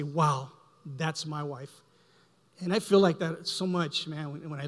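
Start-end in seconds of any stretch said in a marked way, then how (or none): 0.0-1.7 awed murmur. Retold or imitated. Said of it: "sometimes I just look at my wife and say".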